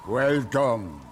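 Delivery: put-on grand welcome in a Wallachian accent. Host welcomes soldiers to his castle, Wallachian accent. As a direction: greet the guests like a proud lord, Wallachian accent. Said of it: "in a thick Wallachian accent".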